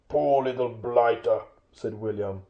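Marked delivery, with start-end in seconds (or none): 0.1-1.4 slow troll sympathy; pitying troll. Acted. Well-fed William pitying Bilbo, slow troll voice. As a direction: drag it out with slow pity.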